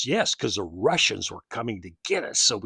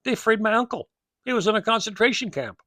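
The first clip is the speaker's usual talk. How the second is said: retold insistence; 10 semitones higher, 6 dB louder than usual. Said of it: "I said".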